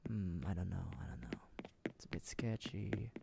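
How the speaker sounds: hushed whisper to the chat. Real, not acted. Tells chat, out of the villager's earshot, in a whisper. Suspicious asides in the villager's house.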